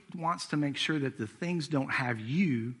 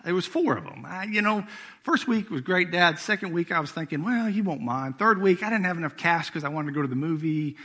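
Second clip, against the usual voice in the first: higher, lightly voiced son making excuses; excuses of a teenage son; 5 semitones higher, 3 dB louder than usual. Preacher imitating his son explaining the spent gas money, higher. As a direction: play the sheepish son talking his way out. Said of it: "Son, on the other hand, says".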